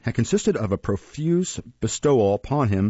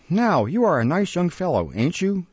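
higher-pitched, mocking reproach; sarcastic scolding; 8 semitones higher than usual. Master shaking his apprentice, sarcastic scolding. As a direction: scold with pointed irony.

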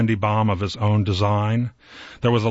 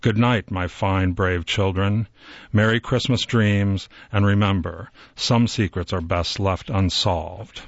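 soft. Acted. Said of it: "he heard Santa say softly".

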